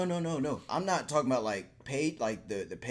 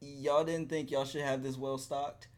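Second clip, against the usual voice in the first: mock angry scolding; 5 semitones higher than usual. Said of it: "I'm like".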